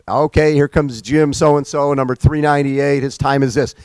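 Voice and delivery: put-on flat old-style finish announcing; monotone announcer. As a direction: read it out like a bored clerk. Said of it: "it was very monotone".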